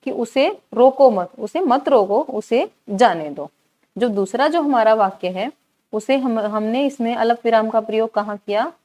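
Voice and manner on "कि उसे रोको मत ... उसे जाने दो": slow emphatic reading, रोको मत kept together as one phrase; stress on letting go. Shown as a demonstration. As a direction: spell out the meaning, setting जाने दो apart slowly. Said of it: "क्या अर्थ हुआ इसका?".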